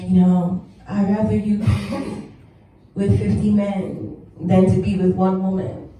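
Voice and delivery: put-on light Haitian accent on the mom; a hint of a Haitian mother's accent. Comic voicing her Haitian mom's disapproval, light Haitian accent. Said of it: "so I'm gonna do an accent".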